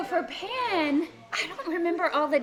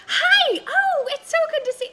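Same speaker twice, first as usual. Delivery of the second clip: put-on higher, louder excited girl voice; Pan voice; 13 semitones higher, 6 dB louder than usual. Shown as a demonstration. Voice actress greets convention fans as Pan. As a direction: chirp a greeting as spunky Pan. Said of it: "kind of me in a higher register".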